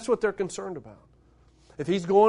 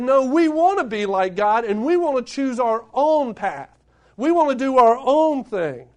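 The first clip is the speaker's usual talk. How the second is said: defiant demand; 3 semitones higher, 4 dB louder than usual. Retold or imitated. Mocking humanity's defiance of God.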